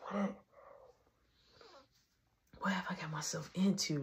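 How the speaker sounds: soft voiceless worried whisper; whispered panic. Retold or imitated. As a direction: fret under your breath. Panicking alone in the car.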